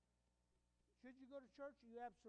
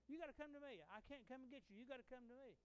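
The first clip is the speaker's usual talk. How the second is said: mock parent calling; 4 semitones higher than usual. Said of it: "parent on railroad tracks".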